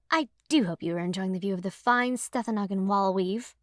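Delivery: lightly voiced snob; a hint of haughty lady of the house; mock-snooty tour guide; snobby. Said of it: "I say in my snobbiest voice".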